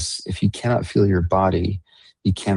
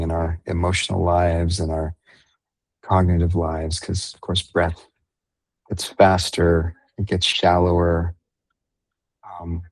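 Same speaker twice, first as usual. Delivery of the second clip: unhurried meditation guide, long pauses between phrases; guided meditation. Real, not acted. Meditation leader guiding listeners into breath and body awareness, guided meditation. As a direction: ease them gently through the breathing, leaving space.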